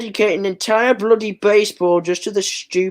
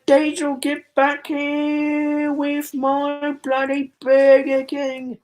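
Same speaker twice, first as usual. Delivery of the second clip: character calling out; 6 semitones higher, slower than usual. Acted. Character yelling after engine.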